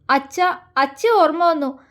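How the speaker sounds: tearful, broken words; sobbing. Acted. Girl telling him she misses her father, sobbing. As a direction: stammer it through sobs. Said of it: "അവൾ തേങ്ങിക്കൊണ്ട് പറഞ്ഞു".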